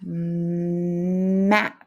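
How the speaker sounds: "mat?" whispered with no voice; hushed, voiceless "mat?"; whispered word. Shown as a demonstration. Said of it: "Where's that A sound?".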